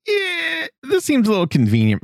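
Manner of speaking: high, sceptical mock voice; skeptical. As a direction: squeak it out in disbelief. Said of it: "I was like".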